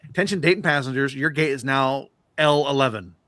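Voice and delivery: lightly voiced airport announcement; imitated gate announcer. Gate lady to Dayton passengers, mock announcement. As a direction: announce it formally, slowing on the gate number. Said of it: "the lady picks the thing".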